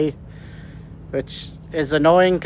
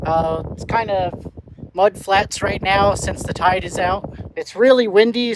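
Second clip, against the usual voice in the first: wind on mic. Real, not acted. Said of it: "sorry about the wind noise".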